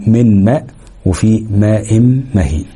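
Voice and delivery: slow "من ماء" and "ماء مهين" with doubled, held m; merged meem. Shown as a demonstration. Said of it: "ميم مدغمة".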